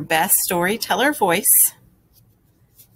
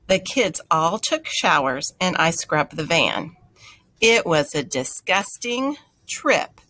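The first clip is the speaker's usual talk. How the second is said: put-on lively read-aloud for young listeners; best storyteller voice. A narrator's reading. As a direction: tell it like the best story ever. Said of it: "in my best storyteller voice".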